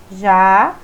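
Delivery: "já" held long as one strong syllable; stressed syllable alone. Shown as a demonstration. Teacher repeating the tonic syllable for students, emphatic "já". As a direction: isolate and stretch "já". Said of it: "pronunciadas com mais intensidade".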